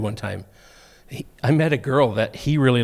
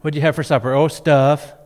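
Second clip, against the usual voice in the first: imitating kids; 3 semitones higher, 4 dB louder than usual. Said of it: "kids will say things like".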